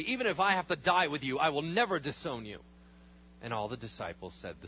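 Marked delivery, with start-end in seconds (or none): 0.0-2.6 emphatic insisting. Acted. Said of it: "Peter insisted emphatically".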